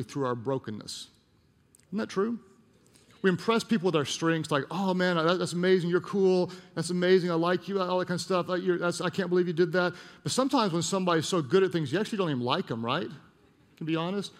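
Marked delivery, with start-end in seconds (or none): 4.7-7.8 higher-pitched imitation of a gushing fan; mock admiration. Mimicking admirers of someone's strengths. 8.6-9.9 higher-pitched imitation of a gushing fan; mock admiration. Mimicking admirers of someone's strengths.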